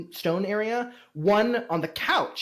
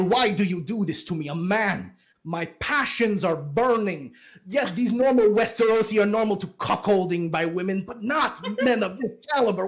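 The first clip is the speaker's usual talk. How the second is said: mildly hammed-up wounded lover, higher voice; passionate lament; 4 semitones higher than usual. Game master as a passionate man asking Lyle why, lightly hammed-up lamenting. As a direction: plead your passion, a touch melodramatic.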